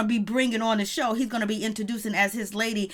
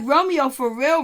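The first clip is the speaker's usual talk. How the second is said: slow, louder disbelieving question; disbelief; 3 semitones higher, 5 dB louder than usual. Retold or imitated. Asking Romeo directly, slow louder disbelief. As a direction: drag it out, not buying it. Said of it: "I was like".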